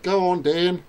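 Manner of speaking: botched New Zealand fan's cheer; attempted New Zealand accent. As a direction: badly fake a New Zealand fan's shout. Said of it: "apart from perhaps with a New Zealand accent".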